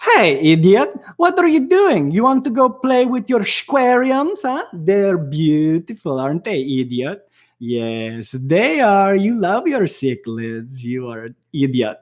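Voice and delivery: Group X prank-call voice. Retold or imitated. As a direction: tease a friend in a silly cartoon voice. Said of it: "I started talking like this on accident".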